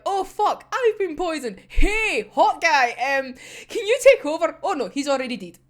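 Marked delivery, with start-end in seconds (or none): 0.1-4.6 mock panicked gasp, higher; hammed-up dying pilot asking for help; playful mock distress. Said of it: "And it's like".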